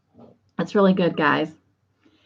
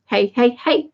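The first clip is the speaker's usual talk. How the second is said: lightly chanted hey-hey-hey, stepping upward; a hint of a kids' comedy catchphrase; Little Rascals; 3 semitones higher than usual. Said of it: "I was thinking of the Little Rascals".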